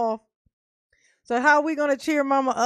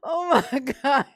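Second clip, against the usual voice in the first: heated rant; 2 semitones higher than usual. Real, not acted. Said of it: "Mama had to rant a little bit".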